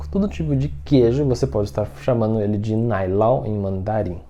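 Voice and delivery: ordinary talk, nothing marked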